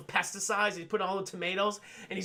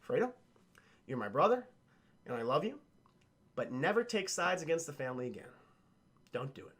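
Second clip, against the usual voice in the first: calm Michael; 4 semitones lower, 4 dB quieter than usual. Retold or imitated. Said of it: "Michael's being calm".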